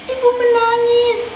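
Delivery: slow, drawn-out grieving stress on menangis; tragic heroine sorrow. Acted. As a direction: let menangis sink and break slowly. Child tells mother crying.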